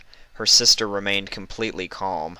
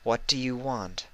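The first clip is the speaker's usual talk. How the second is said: firm and soothing; 4 semitones higher, 6 dB quieter than usual. A narrator's reading. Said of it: "firm, calm and soothing".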